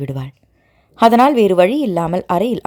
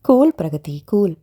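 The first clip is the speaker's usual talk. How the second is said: calm; 2 semitones lower than usual. Acted. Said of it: "என்று அவள் அமைதியாக சொல்ல".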